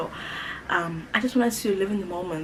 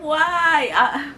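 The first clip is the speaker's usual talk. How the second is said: high, loud squeal of mock dismay; high squealed why; 10 semitones higher, 9 dB louder than usual. Telling viewers how she reacted to calling her boyfriend, high squeal. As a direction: squeak it out, half-laughing at yourself.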